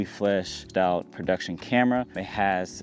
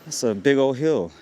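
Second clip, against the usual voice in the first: panting after the climb; winded, catching breath; 4 semitones higher than usual. Real, not acted. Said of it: "Man, this is hard".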